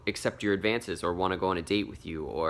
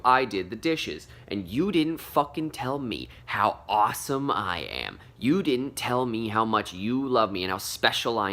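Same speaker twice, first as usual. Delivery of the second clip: whiny needy partner; 4 dB louder than usual. Retold or imitated. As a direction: play the hurt partner wanting praise. Mocking a needy partner's complaint.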